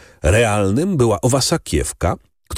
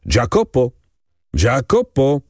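calling out; 3 semitones higher than usual. A narrator's reading. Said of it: "zawołał".

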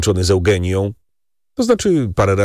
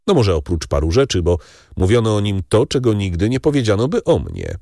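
Danglars, spiteful baron; 4 semitones higher than usual. Acted. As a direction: let the insinuation hang. Danglars disparaging Fernand.

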